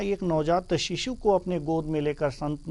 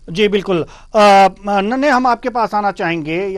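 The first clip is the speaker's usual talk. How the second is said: calling out; 4 semitones higher, 11 dB louder than usual. Real, not acted. Anchor calls reporter on live link.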